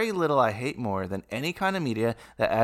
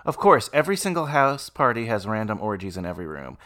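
sarcastic; 2 semitones lower than usual. Shown as a demonstration. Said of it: "I was gonna be like".

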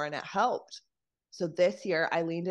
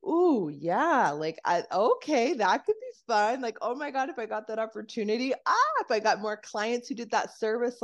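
higher, brighter, eager and bubbling; excited inner voice; 4 semitones higher, 3 dB louder than usual. Retold or imitated. Body reacting to a fun opportunity, excited. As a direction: gush like a great opportunity just landed.

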